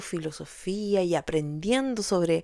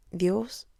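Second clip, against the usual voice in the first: whispered plea to God; soft whispered call to God; whispered prayer; 4 dB quieter than usual. Retold or imitated. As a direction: breathe the word as a kneeling plea. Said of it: "arrodillarme y decir".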